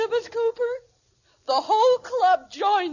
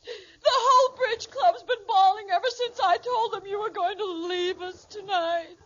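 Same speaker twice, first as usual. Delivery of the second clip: tearful. Acted. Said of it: "are you crying?".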